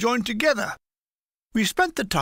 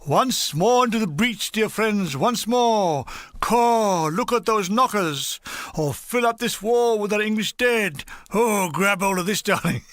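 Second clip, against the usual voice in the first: army Shakespeare. Retold or imitated. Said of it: "it would have sounded more like this".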